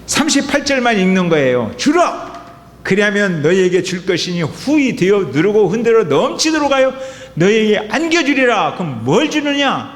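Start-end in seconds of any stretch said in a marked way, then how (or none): 1.8-8.8 higher, preacher's ringing cadence on 넘치도록; revival preacher reading. Retold or imitated. Pastor imitating revival preachers reading the verse, fervent and higher. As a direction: lift it like a revival speaker stirring the crowd. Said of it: "부흥 강사들이 많이 이렇게 읽는".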